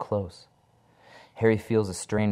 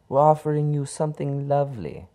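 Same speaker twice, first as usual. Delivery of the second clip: seductive; 8 semitones higher, 5 dB louder than usual. Acted. Kalila seducing Harry.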